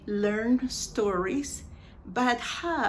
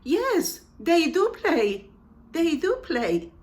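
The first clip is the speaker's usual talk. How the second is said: "do" hit higher and louder; raised, insistent "they do play"; emphatic do; 7 semitones higher, 5 dB louder than usual. Shown as a demonstration. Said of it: "Usamos el do para énfasis".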